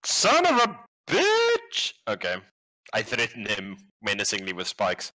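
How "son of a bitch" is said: very high, drawn-out squealed curse; frustrated cursing. Acted. Player cursing a missed attack, loud drawn-out frustrated squeal.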